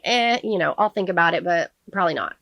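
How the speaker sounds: mock half-hearted maybe; politely noncommittal. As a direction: hedge it politely, as if putting someone off. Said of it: "Just trying to be, like, polite".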